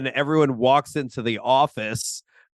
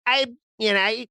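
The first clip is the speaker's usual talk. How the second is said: higher-pitched mock Russian accent; bad Russian accent; 9 semitones higher than usual. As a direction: launch into a clumsy Russian accent. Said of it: "horrible Russian accent".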